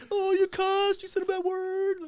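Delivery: put-on singsong gotcha kid; tattletale kid. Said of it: "you're like".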